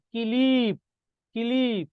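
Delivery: কিলিপ as two drawn syllables, ki-lip; vowel after consonant. Shown as a demonstration. Teacher shows class where the vowel sounds in কিলিপ, pronunciation demo. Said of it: "এই রস্বইকারটা উচ্চারণ কোথায়?".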